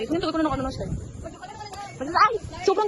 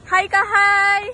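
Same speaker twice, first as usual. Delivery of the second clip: calling out; 3 semitones higher, 8 dB louder, much slower than usual. Real, not acted. Calling out greetings.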